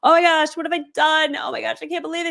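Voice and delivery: high, loud mock despair; hammed-up drama. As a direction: overplay the panic for the husband. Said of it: "I go lie in front of his door very dramatically".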